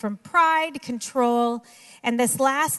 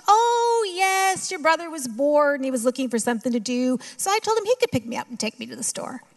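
mother's voice; 3 semitones higher than usual. Retold or imitated. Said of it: "She goes".

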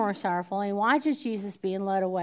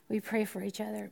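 softer restatement; 6 dB quieter than usual. Shown as a demonstration. Preacher restating softly, "pray" stressed. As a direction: say "we pray for each other" softly, as the real thing. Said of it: "We say we pray for each other".

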